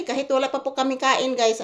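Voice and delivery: ordinary delivery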